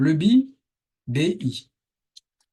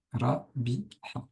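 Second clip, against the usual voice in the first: quiet recap; 6 dB quieter, slower than usual. Shown as a demonstration. Teacher quietly repeats the syllables for students, soft. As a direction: murmur the syllables again as a quick check. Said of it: "attention à ce ba".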